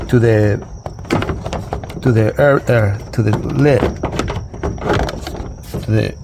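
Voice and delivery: tongue-tied, stumbling over words; struggling to get the words out; catching breath midword. Real, not acted. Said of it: "I can't even talk".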